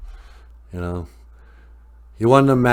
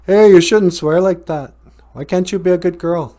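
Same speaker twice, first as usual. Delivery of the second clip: mock scolding tough guy; 9 semitones higher, 8 dB louder than usual. Rocky scolds swearing girl.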